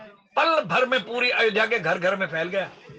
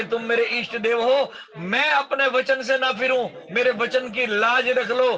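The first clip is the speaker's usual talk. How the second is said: earnest, slightly raised entreaty; praying; 3 semitones higher than usual. Acted. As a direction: act out a father's plea to God. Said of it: "ऐसे भगवान से प्रार्थना कर रहे थे". (प्रार्थना भरा हल्का आग्रह)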